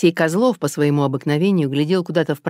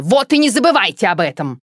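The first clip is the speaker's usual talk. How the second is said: higher, louder warning; worked-up; 5 semitones higher, 5 dB louder than usual. Acted. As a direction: jab a final warning. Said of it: "взвинченная Алла Дмитриевна". (взвинченно)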